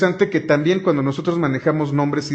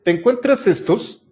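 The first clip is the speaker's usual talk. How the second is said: higher, playful question to the code; asking the program; 7 semitones higher than usual. Pretend. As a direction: voice the instruction as if talking to the program. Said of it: "Y lo que voy a decir es".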